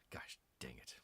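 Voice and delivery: a low, whispered curse under the breath; a real quiet grumble; muttered whisper. Real, not acted. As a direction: hiss the frustration quietly. Book tape broke.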